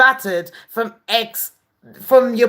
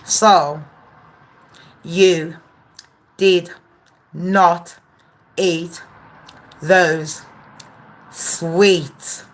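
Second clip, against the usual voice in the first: slow accusation; 4 semitones lower, much slower than usual. Acted.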